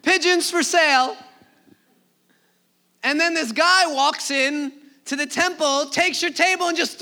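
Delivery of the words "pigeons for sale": loud hawker's cry, repeated; market vendor calling out. Retold or imitated. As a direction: shout it across the bazaar like a vendor. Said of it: "you're screaming like".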